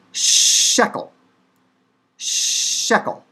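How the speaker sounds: SHEKEL with a long hushed sh; Hebrew pronunciation demo. Shown as a demonstration. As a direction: stretch the opening sh of shekel. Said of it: "completely different sound. It's sh".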